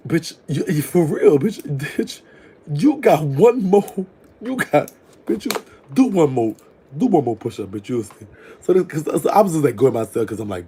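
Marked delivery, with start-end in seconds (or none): 0.1-8.3 higher, louder, slow stammering build; giddy threat. Retold or imitated. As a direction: stutter out a hungry warning. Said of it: "really thinking to myself".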